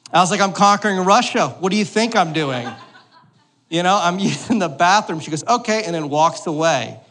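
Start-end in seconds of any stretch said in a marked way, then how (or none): 0.4-2.7 louder, higher mock-indignant reply; sarcastic retort. Dad's sarcastic reply through door. 5.5-5.8 put-on little girl voice. Little daughter answers.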